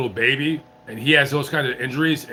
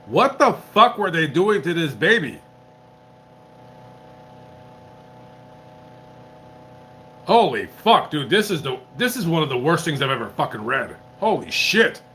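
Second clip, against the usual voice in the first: outraged. Real, not acted. Outraged reacting to child abuse.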